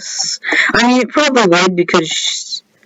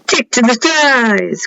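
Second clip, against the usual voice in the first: slow, stretched-out mock-grand cry; mock-grand flourish; 3 semitones higher than usual. Gamer showing viewers the levitation gem, mock-grand. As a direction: draw it out like a heroic motto. Dramatic reading of a gem's motto.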